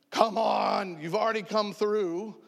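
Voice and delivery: high, exasperated appeal; retold crying out. Stranded man appeals to the Lord, mock crying out. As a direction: call it up to heaven, mildly hammed-up. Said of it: "crying out to him going".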